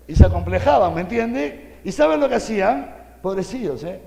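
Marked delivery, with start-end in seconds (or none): 0.1-0.9 the same words again, much louder and pressed; louder repeat. Acted. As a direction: hammer the point home. Repeats it for emphasis.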